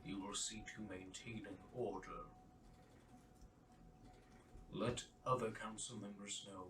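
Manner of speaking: lightly voiced ruler giving orders; solemn king. King instructs the oracle to keep order, measured and solemn. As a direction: command evenly, with long pauses. Game master plays the king.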